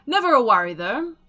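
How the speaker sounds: bright, projected announcer voice closing the sale; showy auction host. Acted. Auctioneer June bids the crowd farewell, grandly projected. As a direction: sell it to the crowd like a grand showman.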